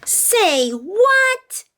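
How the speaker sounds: high, sharp growl of a bossy bully. A narrator's reading. Reading Mean Jean's threat to the class, growled. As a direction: snap it like a playground queen. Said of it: "Mean Jean growled".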